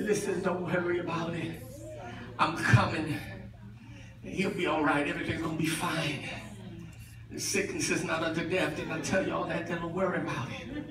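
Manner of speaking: low, soft sermon voice; hushed, intimate pulpit voice; quiet preaching. Acted.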